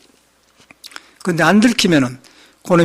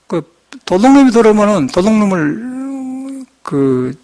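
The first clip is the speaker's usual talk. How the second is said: ordinary talk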